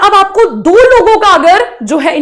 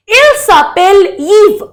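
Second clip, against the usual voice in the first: slow model sentence; 3 semitones higher, much slower than usual. Shown as a demonstration. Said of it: "तो कैसे देते हैं किसी और का इंट्रोडक्शन?".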